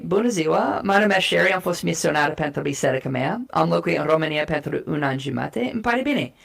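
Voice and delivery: greeting in Romanian; speaking Romanian. Shown as a demonstration. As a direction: switch into a Romanian self-introduction. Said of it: "you say".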